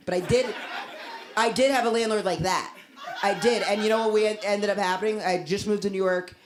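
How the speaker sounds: ordinary talk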